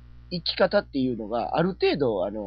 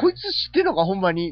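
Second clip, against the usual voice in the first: incredulous; 3 semitones higher, faster than usual. Retold or imitated. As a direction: gasp it out in disbelief. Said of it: "みたいな".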